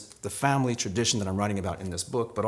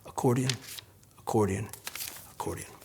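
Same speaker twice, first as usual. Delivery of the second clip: fading repeat; 4 dB quieter than usual. Acted.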